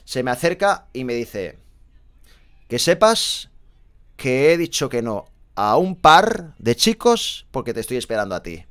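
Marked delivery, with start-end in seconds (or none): 2.7-8.6 emphatic, drawn-out retelling of her line; retold declaration. Woman at a disco boasting to the narrator, retold pointedly. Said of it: "Así tal cual me lo dijo".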